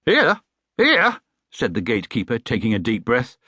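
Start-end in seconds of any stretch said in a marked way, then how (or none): 0.1-0.4 outraged disbelief. Acted. Gatekeeper outraged. 0.8-1.2 much higher, louder indignant "Here?"; outraged disbelief, rising. Acted. Outraged repeat.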